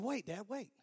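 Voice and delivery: soft urgent aside; hushed protest. Retold or imitated. Groom halting his dad before the ceremony, hushed protest. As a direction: stop him under your breath.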